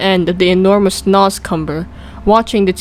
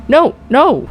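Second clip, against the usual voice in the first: frightened cry; 7 semitones higher than usual. A narrator's reading. Frightened giant denies hiding a human, high panicked cry. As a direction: plead in alarm. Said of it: "cried the B F G".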